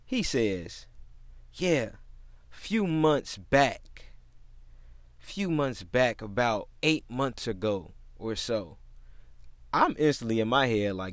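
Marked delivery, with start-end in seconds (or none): 1.5-8.8 lightly voiced slow, drawn-out customer; odd customer impression. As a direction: imitate a customer dragging out his words. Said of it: "this is exactly how he talked".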